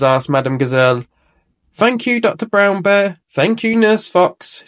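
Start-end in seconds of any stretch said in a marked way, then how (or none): 1.7-4.6 put-on children cheering thanks. A narrator's reading. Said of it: "cheered the children".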